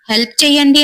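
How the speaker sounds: understated shout to people nearby; calling for help. Acted. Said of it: "గట్టిగా అరుస్తూ పిలుస్తున్నాడు".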